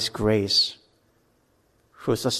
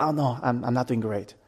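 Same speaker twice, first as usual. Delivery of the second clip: downcast; 7 dB quieter than usual. Retold or imitated. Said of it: "going back and forth".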